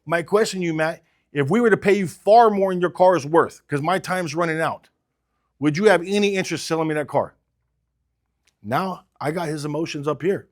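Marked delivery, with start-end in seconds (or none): 0.0-7.3 urgent, slightly pressed sales pitch, a touch desperate; urgent, stressed pitch. Shown as a demonstration. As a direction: sound like time is running out. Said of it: "when they can hear that stress in my voice".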